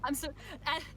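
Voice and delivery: campy drag queen. Acted. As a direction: tease like a flamboyant boutique owner. Shopkeeper teases about cowboy fashion.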